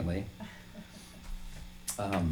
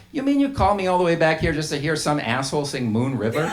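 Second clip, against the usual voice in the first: mock exasperated boss; 7 semitones higher, 6 dB louder than usual. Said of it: "He said".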